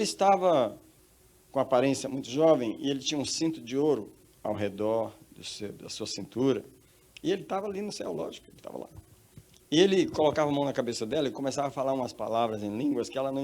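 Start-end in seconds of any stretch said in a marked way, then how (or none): none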